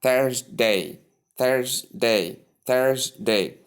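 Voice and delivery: Thursday as THURS-day, both parts clear; careful repeated Thursday with long first vowel; syllables combined. Shown as a demonstration. Teacher joining the parts of Thursday, two clear syllables. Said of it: "So when you combine them".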